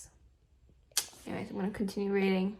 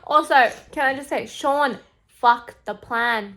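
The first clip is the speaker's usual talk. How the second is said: impatient outburst; 7 dB louder than usual. Real, not acted. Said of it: "I'm running out of patience".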